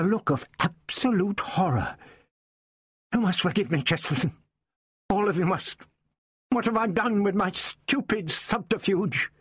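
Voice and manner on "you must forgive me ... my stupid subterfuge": put-on higher, strained old man's voice full of remorse; distressed old doctor. A narrator's reading. Old doctor begging his companions' forgiveness, higher and remorseful. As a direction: plead for forgiveness, higher and anguished.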